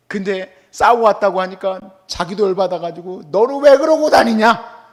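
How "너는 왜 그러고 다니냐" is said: loud, slow scolding question; mock angry parent. Parent scolds child back from a fight, loud and slow.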